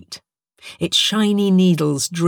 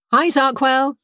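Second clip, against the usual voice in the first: calling out; 8 semitones higher than usual. A narrator's reading. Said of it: "she called in the direction".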